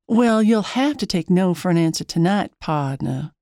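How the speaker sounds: a playful put-on country twang, lightly done. Turning down the cowboy at the gas pump, in a light country twang. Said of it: "I say with a country twang".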